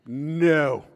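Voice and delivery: tender dad to daughter. Pretend. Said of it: "I'm gonna be like".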